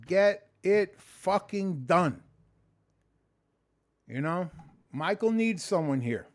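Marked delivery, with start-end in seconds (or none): 0.1-2.2 a guitarist's motto. Retold or imitated. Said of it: that a guitarist says it.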